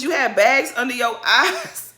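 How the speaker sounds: mildly mocking retelling. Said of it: "All she said to you was".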